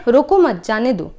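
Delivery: रोको मत together, break, then जाने दो; group मत with रोको, then release जाने दो; comma after मत. Shown as a demonstration. Teacher contrasts the meaning, pausing after मत before जाने दो. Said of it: "किस तरह से चेंज सिर्फ एक चिन्ह लगाने से".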